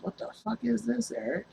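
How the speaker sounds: high-pitched mock outrage, imitating his aunt; aunt finding the oversized pants, shocked and high-pitched. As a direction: squeak it out like a stunned aunt. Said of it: "She says".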